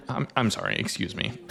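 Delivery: soft, almost whispered excuse me; a quiet, awkward sorry as he backs off; hushed apology. Acted. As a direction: slip out an embarrassed apology under the breath. Kalith apologizes, slipping away.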